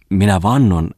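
loud, weighty stress on "Minä vannon"; emphatic vow. A narrator's reading. Bungman promises the editor silence, stressing "Minä vannon". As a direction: swear it with force on "vannon".

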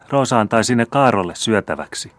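put-on high, small child's plea; little girl's voice. A narrator's reading. Little Roosa asking the old man for his chains, high childlike plea. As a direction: ask like a small girl wanting the shiny thing.

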